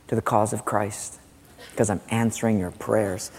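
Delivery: low, soft rebuke; lightly voiced God, subdued and grave. God replying to people mad at unanswered prayers, quiet rebuke. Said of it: "Sometimes we get mad at God".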